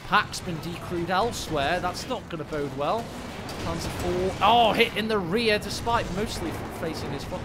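urgent caster voice; live play-by-play. Acted. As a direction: call the action as it hits.

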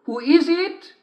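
high sing-song fake mother voice; wolf in bed pretending to be mother; wolf faking mother. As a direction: sing out sweetly to lure her in. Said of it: "sang out the wolf".

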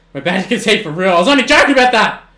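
real rattled gamer rush; panicked excitement. Real, not acted. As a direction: gabble it out as the play turns. Game turns against him.

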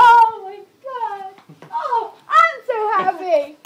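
loud, high, tearful joy; happy crying. Real, not acted. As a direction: cry out with happiness. Pregnancy reveal, tearful joy.

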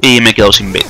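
ordinary delivery

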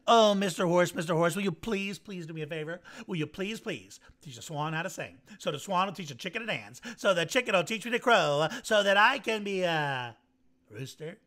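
a hint of a duck asking a big favour; pleading duck. Duck Don pleads with Horse.

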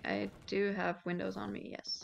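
soft unvoiced whisper. Real, not acted. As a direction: breathe it under your breath. Whispered aside while playing.

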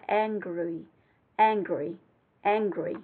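"angry" with the r and g barely touched; light r and g. Shown as a demonstration. Teacher showing students a soft r and g in "angry". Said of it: "r, g nó rất là nhẹ".

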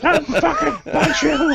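loud, high laughing yell; mock threat. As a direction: shout a playful threat while cracking up. Player yells mock threat amid laughter.

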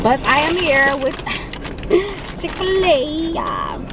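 giggling through the words; laughing. Real, not acted. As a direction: laugh as you announce it. Laughing announcement.

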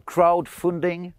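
English word in a French accent, drawn out. Real, not acted. Farmer naming his fundraising in English, French accent. Excusez mon anglais, euh, mon accent.

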